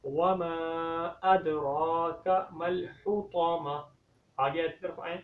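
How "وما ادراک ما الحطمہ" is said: slow tajweed recitation; correct recitation. Shown as a demonstration. Teacher recites the verse properly for students, slow chant. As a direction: recite slowly, long ra. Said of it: "صحیح طریقے سے پڑھیں".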